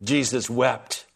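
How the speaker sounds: both words drawn out slowly; slow, weighty scripture quote; slow recitation. Shown as a demonstration. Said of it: "Can you quote it with me?".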